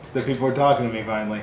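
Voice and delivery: laughing. Real, not acted. Jokes about viewers, laughing.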